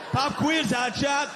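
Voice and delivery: high shouted quizmaster taunt; hammed-up quiz host barking; pushy quizmaster. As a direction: fire it off like a game show host. Quiz-show racist persona.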